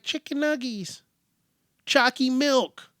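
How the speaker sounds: high-pitched mock toddler voice; demanding little kid. Kid refusing salmon cakes, high childish demand. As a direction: whine for junk food like a small child.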